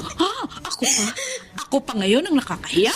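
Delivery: scornful laughing disbelief; bitter laugh. Acted. Wife mocks husband. (mapait na tawa)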